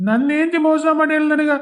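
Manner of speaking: hammed-up sob of a cheated husband; wailing. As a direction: howl out the betrayal. Ghost wails about cheating wife.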